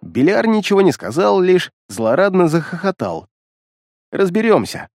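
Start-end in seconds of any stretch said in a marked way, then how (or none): 4.1-4.9 grumbling. Acted. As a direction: grumble it reluctantly. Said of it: "проворчал я".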